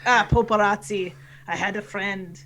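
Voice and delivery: lightly voiced pirate storyteller; Canadian pirate. Explaining his name to a listener, light pirate voice. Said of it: "your Canadian pirate voice".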